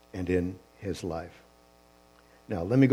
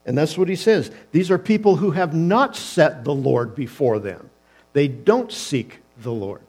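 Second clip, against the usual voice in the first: rising, louder and higher, building to a peak; preaching at full force; 4 semitones higher, 7 dB louder than usual. Real, not acted. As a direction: preach it with growing fire.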